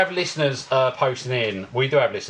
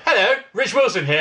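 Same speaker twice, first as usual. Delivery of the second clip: put-on old-fashioned English telephone greeting, slightly higher; mock a formal thirties caller; quaint, proper phone hello; thirties phone manner; 4 semitones higher than usual. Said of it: "are we in the thirties".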